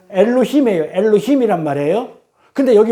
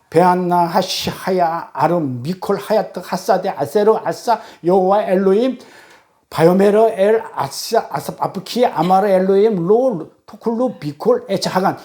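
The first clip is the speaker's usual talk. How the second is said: slow, syllable-by-syllable Hebrew recitation; Hebrew reading. Acted. Preacher reads out written Hebrew verse, slow recitation. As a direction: sound out the Hebrew deliberately.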